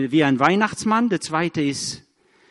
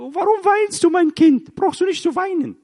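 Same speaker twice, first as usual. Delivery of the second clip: put-on much higher, gently soothing a crying child; tender comfort to a child; 13 semitones higher, 4 dB louder than usual. Parent soothing a crying child over socks, high and tender. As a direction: coo over a little one in tears. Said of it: "Was sagst du?".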